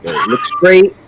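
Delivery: high, clipped street warning; tough New Yorker. Pretend. Gamer mimicking New York street attitude, high. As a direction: play the guarded city walker.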